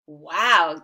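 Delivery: loud amazed wow; gasped. Acted. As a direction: breathe it out in awe. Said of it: "gasped the gingerbread man".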